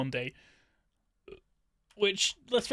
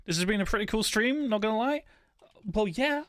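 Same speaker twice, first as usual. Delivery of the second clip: sarcastic; 4 semitones higher than usual. Acted. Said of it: "I can't even say that with a straight face".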